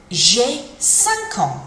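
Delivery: very slow "J'ai cinq ans" with a nasal "cinq"; slow French. Shown as a demonstration. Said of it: "you would say".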